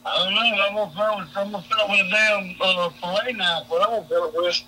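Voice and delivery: muffled, hand over the microphone; words muffled by a covered mic; finger over the mic. Real, not acted. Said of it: "you're covering the microphone with your hand".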